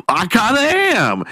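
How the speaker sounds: high, small-voiced confession; mock sheepish admission. Man confessing to the woman, mock sheepish.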